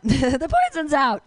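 slow, savoring repeat; repeating the punchline slowly to the crowd. Acted.

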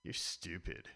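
put-on sulky teenager snapping back; a hint of a whiny teen; teen arguing with parent. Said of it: "impression of a teenager and his winning argument".

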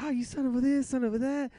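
high, loud, mock-screamed insult; furious mom yell. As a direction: chew the kid out in a rage. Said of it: "it's all in Spanish".

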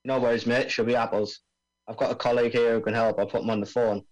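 lightly voiced Aussie bomb expert; laid-back Australian accent, mate. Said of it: "I'm supposed to be doing an Australian accent here".

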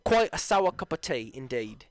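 mock posh British. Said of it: "Boris Johnson".

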